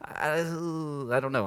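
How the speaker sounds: slow, drawn-out uncertain "I"; hesitant unease. Acted. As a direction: imitate someone unsure, stalling on the first word. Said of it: "it can be like".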